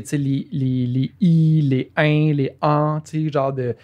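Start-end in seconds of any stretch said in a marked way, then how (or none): 0.9-3.0 "i", "in", "an" sounded out one by one; diction-class vowels. Shown as a demonstration. Recalling diction lessons with a teacher, carefully sounded "i", "in", "an". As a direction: enunciate "i", "in", "an" as separate vowel sounds. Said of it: "les sonorités".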